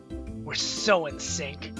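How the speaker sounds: slow, savoured delivery; drawn-out smitten line. Acted. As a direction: stretch it out like a smooth flirt. Acting out a dialogue option.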